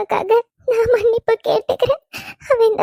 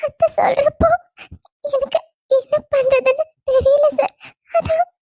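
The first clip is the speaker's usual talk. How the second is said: tearful pleading; 4 semitones higher than usual. Acted. Bride pleads, close to tears.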